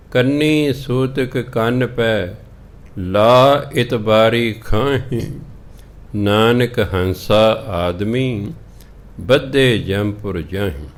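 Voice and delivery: drawn-out scripture chant, slow; slow scripture recitation. Shown as a demonstration. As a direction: intone the verse slowly, word by word. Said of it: "recites scripture slowly". (ਗੁਰਬਾਣੀ ਦਾ ਹੌਲੀ ਹੌਲੀ ਪਾਠ)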